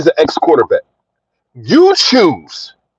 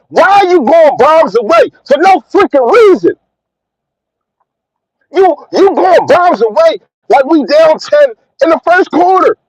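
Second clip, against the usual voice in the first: heated rant; 7 semitones higher than usual. Real, not acted. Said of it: "I'm in my rant today".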